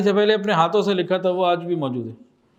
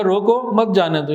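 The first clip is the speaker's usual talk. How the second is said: short break after روکو; pause after روکو. Shown as a demonstration. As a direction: separate روکو from مت جانے دو. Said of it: "روکو پہ اوپر". (روکو کے بعد مختصر وقفہ)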